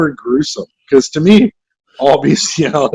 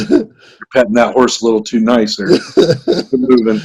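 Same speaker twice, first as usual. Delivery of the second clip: mock Alabama cop; 5 semitones lower than usual. Cop scolding a horse farmer in a mock Alabama accent. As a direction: growl it like a rural sheriff, in a Southern accent. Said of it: "That's all our Alabama accents".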